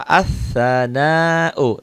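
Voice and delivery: very slow As-sana'u, the s doubled and held; slow Arabic demo. Shown as a demonstration. Teacher models the word for pupils, very slow. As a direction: draw out As-sana'u, al silent. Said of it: "Nah, ini tasdid, sadah".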